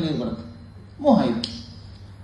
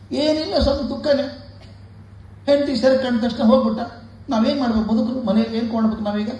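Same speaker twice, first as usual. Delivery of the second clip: tearful complaint; 6 semitones higher than usual. Retold or imitated. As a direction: pour out the grief like a wailing parent. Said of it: "ಹೆಂಡತಿ ಅಳೋದು, ಈ ಗಂಡ ಅಳೋದು". (ಎತ್ತರದ, ಜೋರಾದ ಅಳುವ ತಂದೆಯ ದೂರು)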